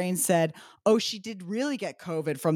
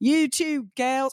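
high-pitched, put-on, attempted Australian accent; 6 semitones higher than usual. Retelling what Australian guys said at drinks, put-on Australian accent. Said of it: "I cannot do an Australian accent".

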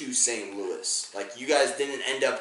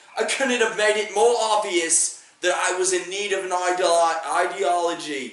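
loud, high put-on British accent slipping toward Australian; 6 semitones higher, 5 dB louder than usual. Retelling what a goofy guy said on set: imitating a British accent. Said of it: "He's British".

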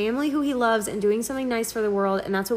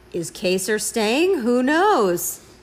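louder mock suspenseful host voice; 4 dB louder than usual. Imitating the host trying hard to build suspense: imitating Julie building suspense. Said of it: "trying her hardest to build suspense".

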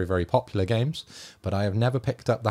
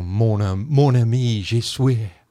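very slow sweet talk with "ami" drawn out; 7 dB louder than usual. Asked for an impression of your favourite X-Man, sweet-talking Rogue, do a Gambit impression. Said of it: "your impression of Gambit".

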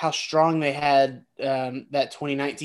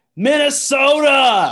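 screamed, shrill, very high and very loud; 11 semitones higher, 9 dB louder than usual. Listing football teams, quoting how Joe Biden says it: screaming Minnesota. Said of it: "You got to scream it".

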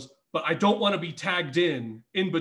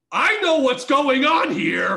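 booming, very loud, slow, deliberate raised voice; 8 semitones higher, 8 dB louder than usual. Recounting a wrestling match, quoting a man in the ring, retelling a very loud line. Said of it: "Andy very loudly goes".

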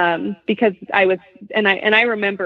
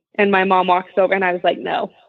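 ordinary delivery

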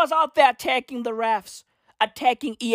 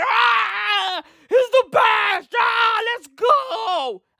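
very slow, high, stretched-out scream; 10 semitones higher than usual. Act out someone screaming that he's the best, imitating someone screaming. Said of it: "Out there screaming".

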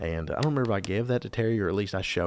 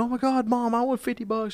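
put-on shrill, very high, excited kid's shriek; 4 dB louder than usual. Recalling winning fifty dollars as a kid, shouting to mom; retelling a childhood scream. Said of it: "I just started screaming".

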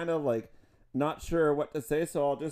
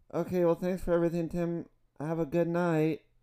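put-on voice like a small boy; 2 semitones higher than usual. Retelling saying goodbye to tim at three in the afternoon, little boy voice. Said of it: "I like turned into a little boy and said".

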